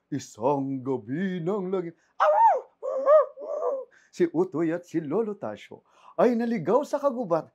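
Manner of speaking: put-on a spooky old radio announcer; radio drama narrator. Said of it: "naririnig ko yung radio drama na".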